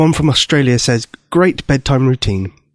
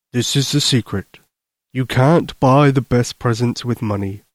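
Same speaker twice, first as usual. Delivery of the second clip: lightly voiced Santa sharing a secret; kindly Santa Claus. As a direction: confide in a child as a gentle Santa.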